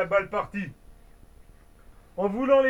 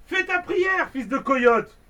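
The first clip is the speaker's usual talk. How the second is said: en criant; 8 semitones higher, 4 dB louder, slower than usual. Acted. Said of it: "il tira en criant".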